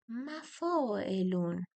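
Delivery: مفاعلون stretched very slowly, syllable by syllable; drawn-out meter foot. Shown as a demonstration. Teacher spells out the first foot of the meter, very slow. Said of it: "وزن بیت چی بود".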